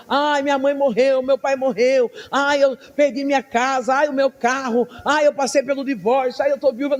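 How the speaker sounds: choradeira imitada, em tom mais agudo; soldado chorão. Acted. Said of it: "um soldado que fica chorando". (lamento chorão imitado)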